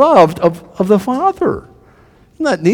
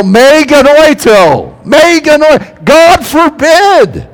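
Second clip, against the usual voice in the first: loud, high, slow outcry; crowd yelling; 8 semitones higher, 5 dB louder, slower than usual. Retold or imitated. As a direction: cry out in horror like the crowd. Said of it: "they yell".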